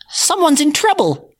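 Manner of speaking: very high squeak; little mouse worried for the girl; squeaky mouse. Acted. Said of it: "squeaked the mouse".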